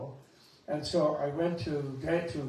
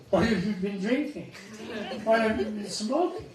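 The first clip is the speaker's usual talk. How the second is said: mock alarmed friend; 4 semitones higher, 4 dB louder than usual. Mocking a worried friend's questions.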